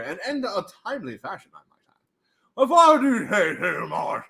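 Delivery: pompous aside in a put-on voice; mock posh. Streamer praising himself in a mock posh voice. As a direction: preen like a stuffy gentleman.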